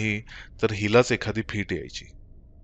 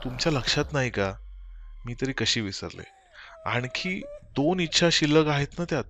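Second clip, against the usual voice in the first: near tears; 6 semitones higher than usual. Acted. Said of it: "जवळजवळ रडतच होती".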